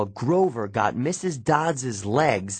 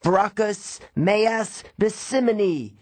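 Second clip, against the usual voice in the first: battle yell; 11 semitones higher, slower than usual. A narrator's reading. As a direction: hurl the strange Latin. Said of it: "I yelled".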